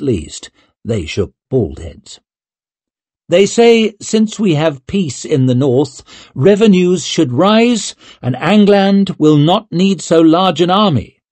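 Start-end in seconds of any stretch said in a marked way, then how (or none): 3.3-11.2 mother's voice. A narrator's reading. Leo's mother reading letter.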